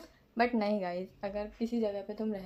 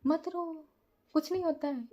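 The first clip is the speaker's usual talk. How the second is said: high, slow comforting to a crying friend; consoling; 6 semitones higher than usual. Retold or imitated. Consoling a crying friend after the exam, soothing. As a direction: soothe her gently, a little higher. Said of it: "दिलासा दे रही हूँ कि".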